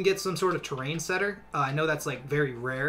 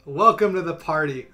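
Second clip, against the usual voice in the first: much higher, louder giddy hype; excited squealing; 4 semitones higher, 6 dB louder than usual. Real, not acted. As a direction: gush over the stats. Celebrating Wumbus Phil's stats.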